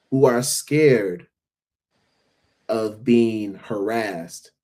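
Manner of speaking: grave, very slow and deliberate; heartfelt and halting; serious. Real, not acted. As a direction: weigh each phrase, leaving long pauses. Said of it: "go on a serious note".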